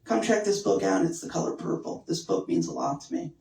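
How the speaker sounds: hushed, sincere book lover; soft earnest voice. Retold or imitated. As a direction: quietly share a favorite book. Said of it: "So she'd be like".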